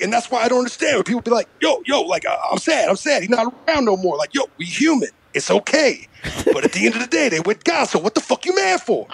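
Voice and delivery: animated rapper impression; mock-exasperated rapper voice; a rapper. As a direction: imitate a rapper ranting in bursts. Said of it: "the only impression I can fucking do".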